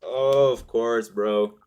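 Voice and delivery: real exasperated yelling at a losing trade; exasperated outburst. Real, not acted. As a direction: blow up at the chart in real frustration. Trade hits stop, exasperated outburst.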